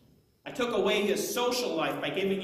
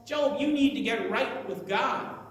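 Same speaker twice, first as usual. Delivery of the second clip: mildly insistent, pressing urging; a touch of pushy preaching; hammering at him; 4 semitones higher than usual. Acted. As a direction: press him to give in, pitch a little raised. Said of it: "they just kept hammering at him".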